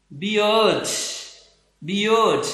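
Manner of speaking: बियर्ड said slowly as "bi-uhd", R left silent; demonstrated pronunciation. Shown as a demonstration. Teacher shows students the British sound, बियर्ड as "bi-uhd". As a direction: say बियर्ड with a drawn-out glide and no R. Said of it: "आर को मैं यहाँ bracket में लिख रहा हूँ".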